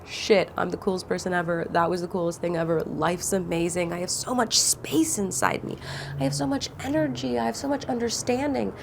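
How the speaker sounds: a hint of giddy post-release wonder, lightly voiced; mock euphoric. Imagined self after the nap, lightly excited awe. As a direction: rattle off the new self-praise, lightly amazed. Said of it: "you will literally be like".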